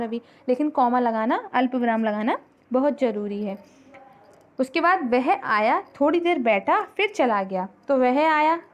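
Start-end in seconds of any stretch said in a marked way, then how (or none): 5.1-7.7 short breaks after आया and बैठा; pauses at commas. Shown as a demonstration. Teacher reading an example for students, pausing at each comma. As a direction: lift थोड़ी देर बैठा, then drop फिर चला गया. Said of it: "उसके बाद वो रुक गया".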